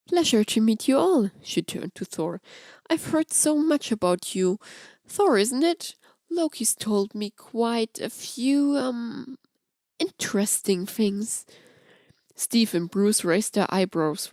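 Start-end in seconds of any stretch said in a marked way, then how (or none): 0.1-11.5 lightly voiced flirt sharing gossip; Amora's voice. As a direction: tease with a sly edge.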